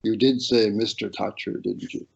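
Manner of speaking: slow, measured comic timing; drawn-out question, dropping away at the end; Haughey. Retold or imitated. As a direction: imitate a politician's deliberate, softly trailing query. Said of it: "his timing was always perfect".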